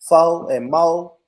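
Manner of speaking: "fo" and "mo" drawn out slowly, r dropped; slow country "fo and mo", open oh endings; country pronunciation. Shown as a demonstration. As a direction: say "fo" and "mo" without any r. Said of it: "I say shit like fo".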